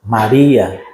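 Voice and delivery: low and gentle, the way only he says it; tender calling of a name. Retold or imitated. Jesus calling Mary at the tomb, tenderly. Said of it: "na hora que Jesus diz assim".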